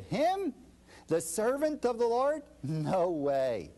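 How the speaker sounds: mock disbelief, as if the idea is absurd; incredulous scoff. Preacher voicing the crowd's disbelief at the servant, incredulous scoff. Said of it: "We said".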